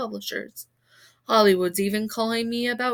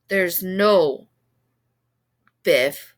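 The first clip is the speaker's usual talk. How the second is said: blank scream; 4 semitones lower, 7 dB louder, much slower than usual. A narrator's reading. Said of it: "she said in a blank scream".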